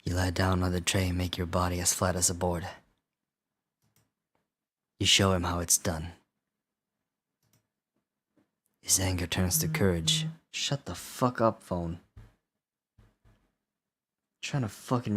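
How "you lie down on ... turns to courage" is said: low, measured creepy narration; spooky storyteller voice; scary voice. Pretend. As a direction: tell the nightmare quietly and evenly. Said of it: "do a scary voice".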